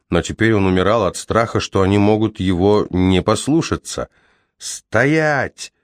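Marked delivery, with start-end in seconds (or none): 4.6-5.7 high ringing shouted command. Acted. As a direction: ring out the order. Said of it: "звенящим голосом закричал он вновь".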